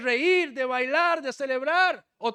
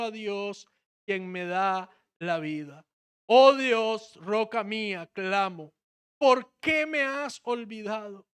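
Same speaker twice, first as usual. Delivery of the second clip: scripture reading. Acted. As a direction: read the psalm with weight. Reads the psalm aloud.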